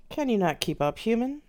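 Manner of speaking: contemptuous spirit mocking a weak mortal; scornful taunt. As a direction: look down on them and jeer. Lilith taunts the fallen human.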